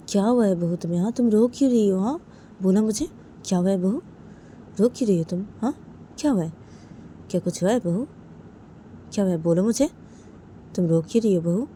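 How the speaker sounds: lightly voiced aunt, insistent questions; concerned aunt. Aunt urges daughter-in-law to explain tears, lightly acted concern. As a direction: keep coaxing her for an answer.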